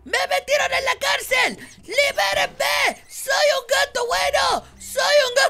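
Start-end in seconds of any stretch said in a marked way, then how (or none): 1.8-5.5 drawn-out pleading shout. Pretend. Cat pleading from jail.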